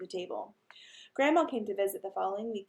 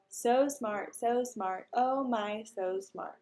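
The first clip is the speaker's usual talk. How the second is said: bird voice; much slower than usual. Acted. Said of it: "Uncle Feather said".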